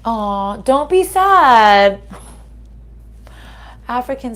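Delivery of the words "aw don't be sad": tender reassurance. Real, not acted. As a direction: stretch it out gently to console a sad listener. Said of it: "consoling the viewer, drawn out".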